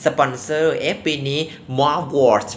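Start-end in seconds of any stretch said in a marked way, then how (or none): 1.8-2.5 "Mugwort" as a Thai speaker's first guess; tentative pronunciation. Shown as a demonstration. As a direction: try out "Mugwort", unsure how it is said. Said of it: "มันออกเสียงยังไงอะ".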